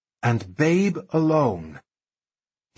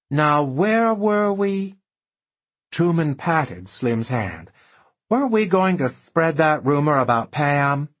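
playful Truman; 4 semitones higher than usual. Acted.

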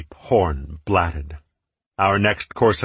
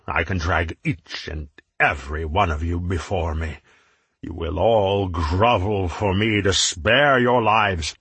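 a hint of a gloating tyrant; menacing warlord. Menot threatens the group.

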